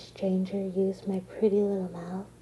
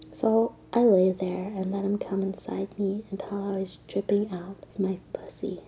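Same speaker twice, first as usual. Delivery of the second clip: erotic whisper. Acted. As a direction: whisper it like a secret.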